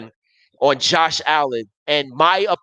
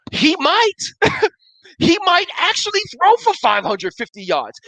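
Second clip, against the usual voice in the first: excited; 12 semitones higher than usual. Real, not acted. Host thrilled about Allen's chances.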